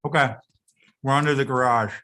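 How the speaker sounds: talking with food in mouth; chewing while talking. Real, not acted. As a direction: speak around a mouthful of food. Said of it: "Excuse me for chewing and talking".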